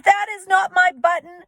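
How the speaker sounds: high, loud shout; teacher demonstrates Toad shouting. Shown as a demonstration. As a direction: shout it in frustration. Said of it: "shouted Toad".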